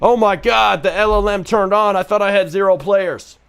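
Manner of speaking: high, loud mock excitement; imitating the excited developer. Developer finds his AI came alive, mock excited squeal. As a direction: squeal it like a thrilled dev. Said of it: "It's like".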